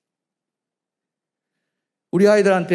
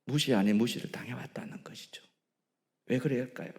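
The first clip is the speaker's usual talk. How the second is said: hushed, grave whisper; sorrowful pulpit whisper; 3 semitones lower, 9 dB quieter than usual. Real, not acted. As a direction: breathe it out softly to the congregation. Hushed sermon aside.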